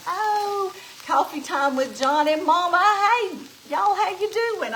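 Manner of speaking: light up greeting regulars; excited greeting. Real, not acted. Cook greeting longtime viewers live, excited.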